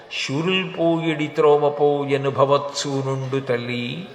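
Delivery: slow, measured Telugu poem recital; verse recitation. Acted. Hiranyakashipu consoling his grieving mother, recited as slow verse. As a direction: recite the verse slowly, drawing out the long syllables.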